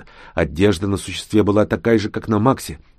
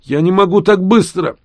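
put-on high, louder wheezy old plea; pleading old voice; 11 semitones higher, 5 dB louder than usual. A narrator's reading. (жалобный стариковский голос)

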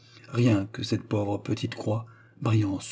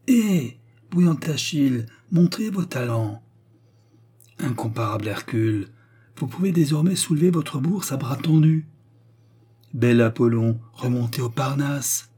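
mocking jeers; 3 semitones higher than usual. The crowd mocking Pulcinella, sneering. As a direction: taunt him with his own praises.

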